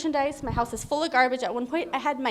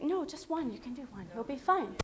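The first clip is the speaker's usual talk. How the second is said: tempting enemy; 11 dB quieter than usual. Retold or imitated. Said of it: "that's when the enemy comes in".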